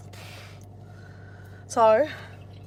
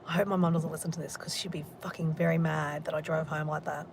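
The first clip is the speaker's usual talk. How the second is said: whisper; 4 semitones lower, 5 dB quieter than usual. Real, not acted. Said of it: "whispers fearing mum hears".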